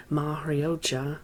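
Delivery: Mahriocha said slowly, Italian-sounding, Mah-ri-o-cha; Italian pronunciation. Shown as a demonstration. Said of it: "the Italian, phonetically".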